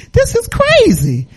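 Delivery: high, drawn-out exasperation; exasperated disbelief. Retold or imitated. Preacher retelling their reaction to swelling eyes, exasperated disbelief.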